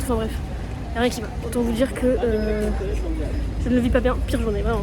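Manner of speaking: loud, exasperated rant; loud complaining. Real, not acted. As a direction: vent the whole awful day loudly. Ranting about worst day.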